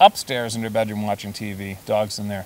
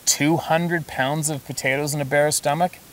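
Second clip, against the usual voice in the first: "Two" lifted higher in disbelief, rising end; incredulous question; 6 semitones higher than usual. Shown as a demonstration. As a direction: ask "Two hundred pounds" as if absurd. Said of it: "That's not gonna happen".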